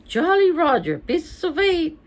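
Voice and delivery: high, loud parrot voice; squawking parrot. Acted. Parrot in the pet shop, high squawk. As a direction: squawk it out like a pirate's bird.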